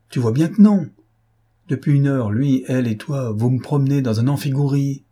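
a brother who has had enough of riddles; exasperated; exasperated outburst. A narrator's reading. Platon loses patience with sister.

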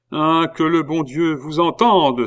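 acted heartfelt exclamation; exclaiming. A narrator's reading. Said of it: "s'écria Louis seize".

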